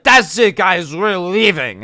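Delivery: high, loud, stretched-out announcement; imitated fed-up yell. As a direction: storm off calling the kids. Fed-up Karen rounds up kids.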